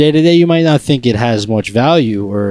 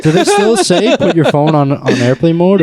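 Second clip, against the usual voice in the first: laughing; 5 semitones higher than usual. Real, not acted. Laughing at the bit.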